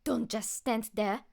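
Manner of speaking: slow, loud call across the fight. A narrator's reading. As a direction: call to the frozen hero, slowly and loud. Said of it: "she called".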